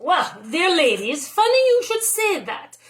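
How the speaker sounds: a sudden high lift on funny; proud baker boasting lightly; lightly voiced Tony, pleased. Tony replies to the aunts.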